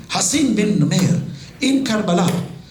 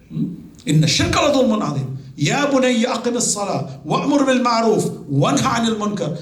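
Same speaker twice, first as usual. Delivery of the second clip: Quran recitation; 2 semitones lower than usual. Acted. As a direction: intone the verses like Quranic tilawa. Recites Luqman's advice in Arabic.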